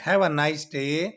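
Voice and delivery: very slow and even; slow model sentence. Shown as a demonstration. Teacher voicing the mother seeing her son off, slow. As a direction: spell out the farewell. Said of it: "آپ کا school میں اچھا دن گزرے".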